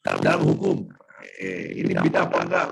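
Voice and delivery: glitchy robotic call audio. Real, not acted. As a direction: voice breaking up like a robot. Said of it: "suaranya, eh, kayak robot".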